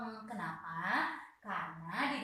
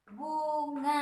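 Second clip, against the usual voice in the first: "Bunga" called out louder and higher, bu-nga; model word clearly; 6 semitones higher, 6 dB louder than usual. Shown as a demonstration. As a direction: announce "Bunga" like a teacher modelling it. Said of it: "ini bacanya nga". (ucapkan "Bunga" lebih keras dan tinggi, suku kata jelas)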